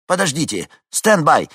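loud, high quick order; hurried call. A narrator's reading. Dispatcher asks the pilot to stand by, hurried call. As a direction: tell him to hold on.

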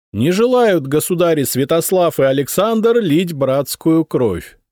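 a goddess commanding the armies; deep chesty voice. A narrator's reading. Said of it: "глубоким грудным голосом произнесла богиня".

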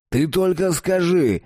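eager, slow, high excited call. A narrator's reading. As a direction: blurt it out eagerly. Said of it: "донёсся его возбуждённый голос".

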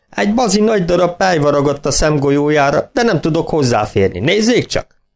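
folksy farmer. A narrator's reading. Farmer explaining.

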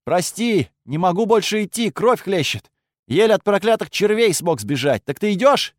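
faking weak voice. Acted. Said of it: "постарался сделать голос слабым".

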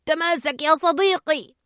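mild shout. Acted. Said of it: "فصرخ آنكر".

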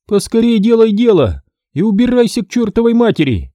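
гневный крик, голос выше и громче; вскипи от злости; гневно. Acted. Парфёнова гонит. (Парфёнова гневно кричит на мастера)

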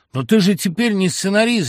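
high, loud cry of an alarmed mother; mother shouting. Acted. Mother on the phone screaming at her son, high loud cry. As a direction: yell it at him in panic. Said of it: "закричала мать".

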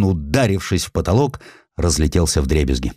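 ordinary delivery, nothing marked

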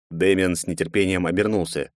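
usual speaking voice

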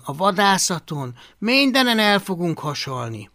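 high, loud despairing complaint; dejected. A narrator's reading. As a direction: lament your hopeless chances with a bitter laugh. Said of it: "Hablaty csüggetten felnevetett".

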